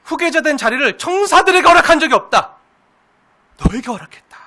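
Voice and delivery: high, loud proclamation from on high; God's booming voice. Acted. Preacher voicing God to mankind, booming. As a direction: declare it like God from the throne.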